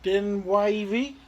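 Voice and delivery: Rewind said backwards; backwards speech. Shown as a demonstration. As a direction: read the word Rewind reversed, letter by letter. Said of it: "Can you say that re-, backwards?".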